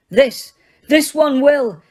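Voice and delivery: slow, breathless gasp; Harry gasping in fear. Acted. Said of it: "gasped Harry".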